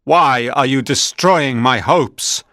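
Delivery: a wronged creature demanding answers, slowing at the end; angry monster. Acted. Monster confronts his creator.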